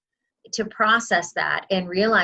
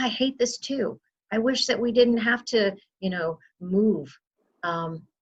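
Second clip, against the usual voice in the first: gentle sympathetic; 2 semitones higher than usual. Shown as a demonstration. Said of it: "I'll say to families".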